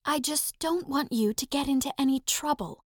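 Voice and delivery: high, soft female voice; soft and sultry. A narrator's reading. Donna warning Evan off the set, soft and sultry. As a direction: softly warn him, sultry and high. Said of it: "Donna's voice was soft and sultry".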